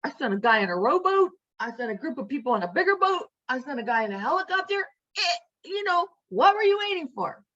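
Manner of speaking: God listing rescues, incredulous; God scolding the drowned man, exasperated and fast. Retold or imitated. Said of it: "And God says".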